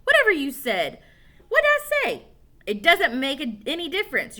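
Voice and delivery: put-on high, loud ranting kid; angry rant. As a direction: rant at him. Angry argument.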